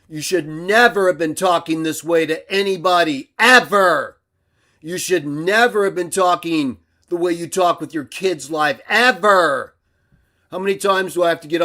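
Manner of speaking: heated, hammering the word never; angry rant. Real, not acted. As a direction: lay into him, pounding each never. Furious rant at a rival.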